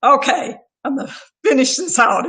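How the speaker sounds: pulling herself together. Real, not acted. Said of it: "try my hardest not to cry anymore".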